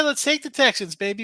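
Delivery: high, loud hype call; excited retold call. Telling Brandon his Texans pick: high, loud excited call. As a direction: pump it up like a winning pick. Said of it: "I said".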